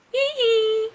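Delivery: high playful giggle. A narrator's reading. The waves giggling at Anna, playful giggle. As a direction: tease like a laughing wave.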